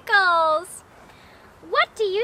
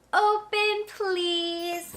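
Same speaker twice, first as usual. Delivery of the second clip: slow call-along; 2 semitones lower, much slower than usual. Shown as a demonstration. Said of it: "Say "open, please" with me".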